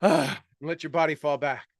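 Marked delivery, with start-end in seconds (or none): 0.0-0.4 relieved ah. Shown as a demonstration. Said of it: "you're like gasps".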